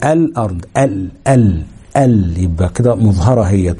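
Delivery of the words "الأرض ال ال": الأرض with the ال lam sounded clearly, then ال repeated; إظهار اللام في الأرض، نطق اللام واضحة; clear lam demo. Shown as a demonstration. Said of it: "الأمثلة زي إيه؟".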